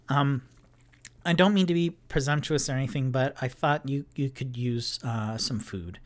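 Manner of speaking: apologetic and eager, rushing the words; nervous Tipsy. Acted. GM voices Tipsy offering food.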